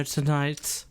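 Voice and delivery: lightly put-on transatlantic accent; old-Hollywood transatlantic accent. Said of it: "transatlantic voice".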